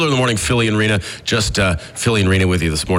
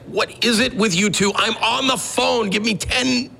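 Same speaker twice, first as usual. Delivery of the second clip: retold exasperated yelling; 12 semitones higher than usual. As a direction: plead with the kids, pitch climbing high. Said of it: "I'm still yelling at them".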